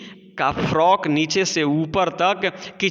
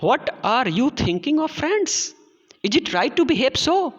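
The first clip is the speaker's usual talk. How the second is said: put-on high, slow pleading old woman; old grandmother; 7 semitones higher, much slower than usual. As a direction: plead with the quarrelling crowd like a grandmother. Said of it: "पूछती हैं".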